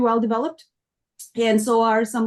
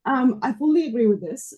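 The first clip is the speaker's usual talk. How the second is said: losing her voice; 3 semitones higher than usual. Real, not acted. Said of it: "I'm losing my voice for some reason".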